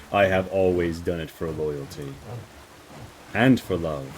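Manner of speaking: measured, solemn noble pledge; lightly voiced vassal speaking formally; earnest loyal lady. Lady explains her loyalty to the liege, solemn.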